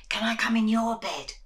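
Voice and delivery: small high mouse voice; high squeaky little mouse asking. Acted.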